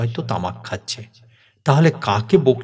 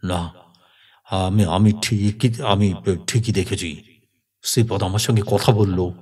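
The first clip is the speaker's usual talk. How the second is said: firm insistence; 3 semitones lower than usual. Acted. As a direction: insist gravely, drawing the words out. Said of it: "দৃঢ় গলায় বললেন".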